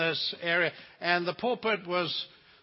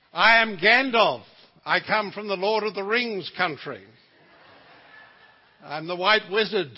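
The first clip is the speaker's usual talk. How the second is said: mock Gandalf; 3 semitones higher, 5 dB louder than usual. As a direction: proclaim yourself the wizard, half-joking. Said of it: "I said".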